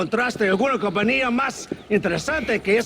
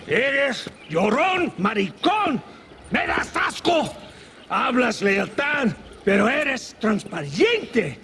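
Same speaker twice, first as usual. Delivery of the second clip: angry berating; 6 semitones higher than usual. Acted. General berating a cowering aide.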